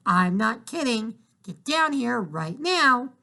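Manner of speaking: mean it this time, spell it out slowly; mother warning daughter to come down at once; stern slow call. Acted. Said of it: "her mother shouted".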